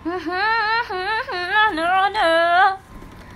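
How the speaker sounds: high humming into la-la notes; wordless singing. Real, not acted. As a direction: hum a tune, rising high. Wordless hummed tune to herself.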